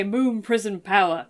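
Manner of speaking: put-on magical girl transformation cry; bright magical girl. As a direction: call it out like a hero's transformation. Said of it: "I hold up the bow and say".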